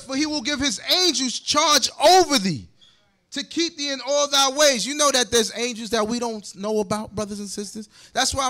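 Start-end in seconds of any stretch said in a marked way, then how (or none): 0.0-4.9 verse read with emphasis; scripture reading. Acted. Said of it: "He said".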